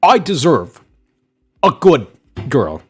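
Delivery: loud, high imitation of entitled whining; mock his self-entitled demand, pushed up and loud; mock entitlement. Mocking an incel who thinks he deserves girls, entitled. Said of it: "this guy's sense of entitlement".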